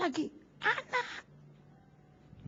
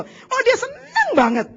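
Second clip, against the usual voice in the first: laughing; 12 semitones higher, 5 dB louder, slower than usual. Real, not acted. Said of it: "laughing at the thought".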